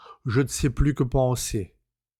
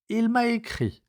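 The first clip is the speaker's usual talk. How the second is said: higher woman's voice, faltering lie; lying cousine; 11 semitones higher than usual. A narrator's reading. Cousine lying to her cousin, uneasy higher voice. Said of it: "donc elle osa mentir".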